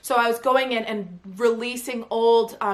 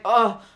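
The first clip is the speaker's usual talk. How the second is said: short mock groan of pain; retold "ugh" of sudden pain; pained grunt; 4 dB louder than usual. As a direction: grunt as if the back seizes up. Retells sudden back spasm.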